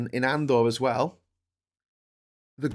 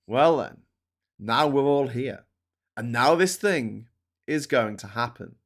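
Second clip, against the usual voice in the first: smug. Retold or imitated. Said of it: "It was all just a bit smug".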